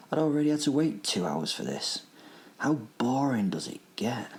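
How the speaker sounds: animated first-person storytelling, key words leaned on; story narration. A narrator's reading. Narrator telling listeners about a hunt, animated storytelling. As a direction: read it like a relished action tale.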